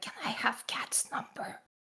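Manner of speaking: quiet whispered line. Playing a character who whispers a request to another character: whispering in character. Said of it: "I'm gonna whisper Anya and be like".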